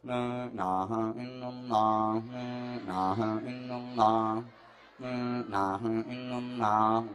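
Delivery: low, soft, droning mumbled chant; half-hearted tahlil. Acted. Guests of a poor host expecting meagre food, half-hearted tahlil. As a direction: drone it listlessly, barely bothering. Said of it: "Tahlilane ra tenanan balas".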